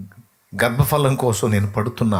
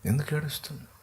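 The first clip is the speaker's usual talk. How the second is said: tender whisper; 7 dB quieter than usual. Acted. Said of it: "అంట".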